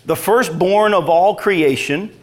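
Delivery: slow, measured Bible reading; scripture reading. Real, not acted. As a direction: read it out solemnly, drawing out each phrase. Reads scripture aloud.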